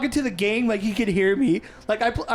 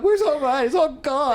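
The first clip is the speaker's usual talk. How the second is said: pitched-up mock complaint; whiny overreactor; 4 semitones higher than usual. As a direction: play a reality-show crybaby. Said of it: "the one who overreacts all the time".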